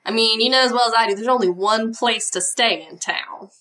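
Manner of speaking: quick Southern waitress twang; gossipy Southern accent. Acted. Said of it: "and she says".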